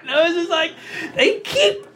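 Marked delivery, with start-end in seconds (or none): 1.1-1.9 high, hammed-up tearful whine, drawn out; mock-sob the complaint like a small child; crying like a kid. Husband complains to wife about boxer briefs, mock crying. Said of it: "I started crying".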